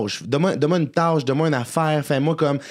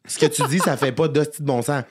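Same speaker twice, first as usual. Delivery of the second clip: Karen voice; 3 semitones higher than usual. Retold or imitated.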